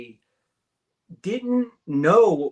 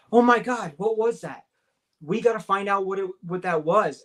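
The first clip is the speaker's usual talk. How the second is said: startled excitement; 4 semitones higher than usual. Retold or imitated. The girlfriend snaps out of her daze after hearing the radio, with startled excitement. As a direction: blurt it out, suddenly wide awake.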